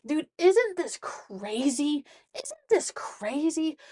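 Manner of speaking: high, drawn-out disbelief; amazed excitement. Real, not acted. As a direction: stretch it out, marvelling at the idea. Marvelling at a mind-boggling idea.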